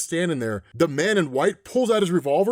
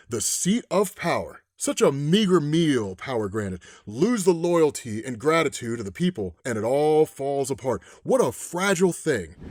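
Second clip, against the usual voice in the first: a hint of a calm, menacing villain; menacing man in white; 3 semitones lower than usual. Man in white lectures the president.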